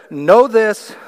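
loud, high opening command; dramatic command. Acted. Preacher reading scripture, loud dramatic "Know this". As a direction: seize the room with it. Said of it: "that's sort of a dramatic way to start".

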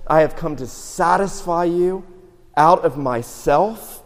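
proclaiming God. Retold or imitated. God speaking in a sermon.

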